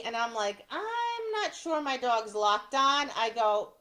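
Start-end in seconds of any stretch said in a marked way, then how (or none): 0.7-3.1 stalling with a stretched "I'm"; mildly unsure, drawing out the first word; acted hesitation. Acts out hesitant answer to judge.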